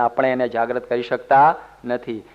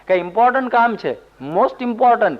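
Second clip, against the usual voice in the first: higher, fast, mock-important; mock urgency; 7 semitones higher than usual. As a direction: puff it up as very important. Camel man mocking the lazy man.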